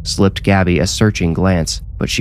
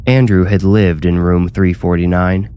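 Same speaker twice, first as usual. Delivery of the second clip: usual speaking voice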